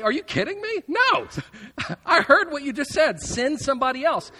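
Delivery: incredulous servant. Retold or imitated. Servant balking at Joab's order, high, loud, laughing disbelief. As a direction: squeak out an outraged, laughing refusal. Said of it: "you would expect that guy to say".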